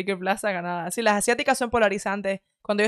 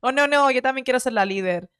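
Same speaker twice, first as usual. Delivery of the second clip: hammed-up prissy protest; mock feminist whine; 4 semitones higher than usual. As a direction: parody someone claiming leadership. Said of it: "dirían".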